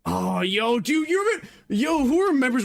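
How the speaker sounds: shaky vibrating voice. Real, not acted. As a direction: voice juddered by chest pounding. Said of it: "pounded your chest".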